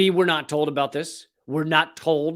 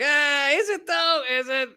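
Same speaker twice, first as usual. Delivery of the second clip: higher, slow, sarcastic doubt; mock skeptical; 9 semitones higher than usual. US brushing off Russia's warning, sarcastic doubt. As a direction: drag it out like you don't believe them. Mocking US response.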